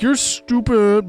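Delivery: put-on childish insult. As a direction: sneer it like a kid. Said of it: "people just being like".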